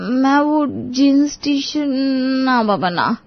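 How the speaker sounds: slow, halting, unsure; hesitant reluctance. Acted. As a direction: stall over the unfamiliar idea. Shy wife balks at western clothes.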